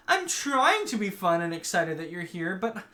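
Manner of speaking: high-pitched mock teen whine; whiny complaint. Girl unable to act excited for her guest, whiny. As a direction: drag out the last words, pitched high.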